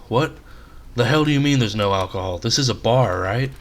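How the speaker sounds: a mild almost-shout at the bartender; mild near-shout. Acted. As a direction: push it up toward a shout without getting there. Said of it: "he almost shouted".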